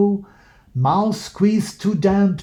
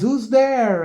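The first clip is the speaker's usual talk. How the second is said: mouse crying out; 6 semitones higher than usual. A narrator's reading. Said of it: "Mouse cries".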